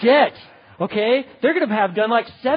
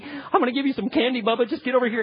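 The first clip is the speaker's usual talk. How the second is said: pleading, bribing; 5 semitones higher, faster than usual. Retold or imitated. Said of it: "You're pleading".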